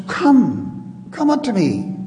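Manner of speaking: pressing, earnest call to come; urgent plea. Retold or imitated. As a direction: urge them to come now. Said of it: "Jesus says urgently".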